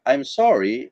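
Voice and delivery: low, falling-back "I'm sorry". Shown as a demonstration. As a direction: apologize in a low voice. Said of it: "in a low voice".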